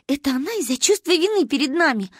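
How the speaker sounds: put-on high child voice, a touch of munching. A narrator's reading. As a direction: speak as a girl busy chewing candy. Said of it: "прочавкала она".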